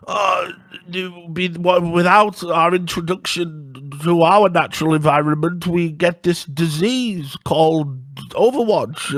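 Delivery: hammed-up high creature apology; sickly sea creature. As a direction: plead weakly like a dying sea creature. Sea creature on a beach speaking.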